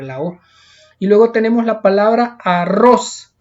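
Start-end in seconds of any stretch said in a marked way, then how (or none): 2.4-3.3 arroz with a strong final syllable; last-syllable stress. Shown as a demonstration. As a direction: land hard on the end of arroz. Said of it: "lleva la mayor fuerza de voz".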